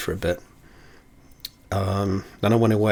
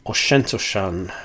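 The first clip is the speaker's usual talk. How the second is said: slow, put-on Scottish accent; slower than usual. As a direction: say the distillery name slowly in a Scottish accent. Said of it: "why I said it in that accent".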